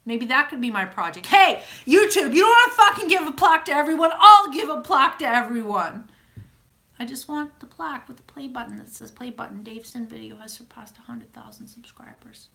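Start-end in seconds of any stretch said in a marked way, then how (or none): 1.3-6.1 loud, high rant; shouted challenge, pitched way up; mock defiant shout. Mock challenge called out to YouTube. 7.0-12.5 soft, high near-whisper; small voice, fading into whisper; wistful hush. Pretend. Wistful wish for a plaque.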